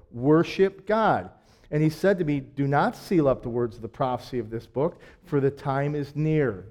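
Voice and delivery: measured, earnest Bible reading with weight on key words; scripture reading. Acted. Preacher reading Revelation aloud to his congregation, measured and earnest.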